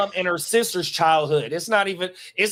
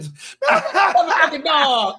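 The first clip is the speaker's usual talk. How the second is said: high, loud yelling quote; high yelling movie voice; 11 semitones higher, 4 dB louder than usual. Retold or imitated. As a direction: yell it high like a shocked character. Quoting movie scene laughing.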